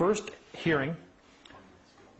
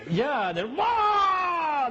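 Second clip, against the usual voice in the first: high mock wail of a judge losing it; hammed-up shriek; mock freakout wail; 5 dB louder, much slower than usual. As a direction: squeal like someone losing their mind. Imitating court freaking out.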